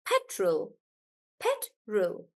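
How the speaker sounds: petrol with pet stressed. Shown as a demonstration. Teacher models petrol for the class, pet stressed. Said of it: "then we stress on pet".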